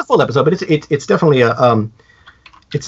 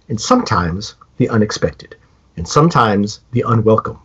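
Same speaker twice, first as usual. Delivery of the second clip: Serling intro; 3 semitones lower than usual. Retold or imitated. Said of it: "that Serling goes".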